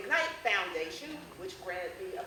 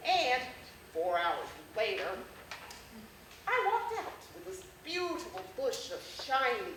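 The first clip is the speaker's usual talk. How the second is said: comic essay reading; 3 dB louder than usual. Acted. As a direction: perform a funny childhood story for a crowd. Performs humorous essay to audience.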